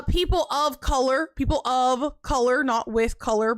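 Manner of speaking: "of" set apart and stressed in "people of color". Shown as a demonstration. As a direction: correct a mishearing, leaning on the word "of". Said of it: "I said of, not with".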